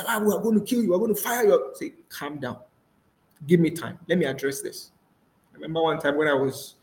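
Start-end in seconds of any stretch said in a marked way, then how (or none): 0.1-1.7 higher-pitched acted warning; mock threat. 2.1-4.9 composed, unhurried acted answer; calm reply. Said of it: "You're just calm".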